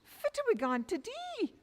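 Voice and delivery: high, fretful lament; mother fretting over the winter ahead; distressed wail. Acted. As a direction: wring your hands and fret aloud. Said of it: "the mither was in a terrible state".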